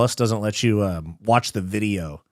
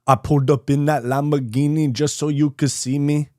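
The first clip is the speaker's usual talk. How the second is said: higher-pitched amateur Scouse rapper; Scouse accent attempt; 4 semitones higher than usual. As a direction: imitate a Liverpool rapper's accent, badly. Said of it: "your Scouse accent attempt got me in stitches".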